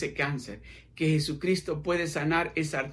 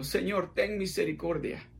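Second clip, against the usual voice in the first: soft plea; 5 dB quieter than usual. Acted. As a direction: pray it quietly, almost under breath. Quiet prayer to the listener.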